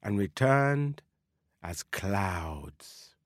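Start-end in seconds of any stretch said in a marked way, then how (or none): 1.6-3.1 whispering. Acted. Story narration drifting softly.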